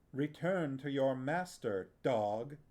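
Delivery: scathing dismissal. Acted. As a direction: sneer it at the dog of a man. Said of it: "Aunt Pole said scathingly".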